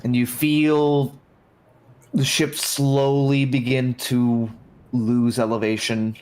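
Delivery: slow, measured scene setting; game master narration. A narrator's reading. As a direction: set the scene slowly and evenly.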